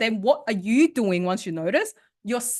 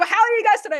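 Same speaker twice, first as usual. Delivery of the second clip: high and loud, full of energy; energetic greeting; 12 semitones higher, 7 dB louder, faster than usual. Shown as a demonstration. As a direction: greet them with a big burst of energy. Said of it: "Same words".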